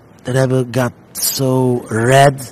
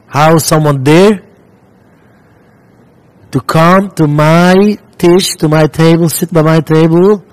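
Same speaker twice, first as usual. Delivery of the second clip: stern Rebbe; 3 semitones higher, 4 dB louder than usual. Retold or imitated. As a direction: drag out the words like an angry rebbe. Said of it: "the Rebbe starts saying".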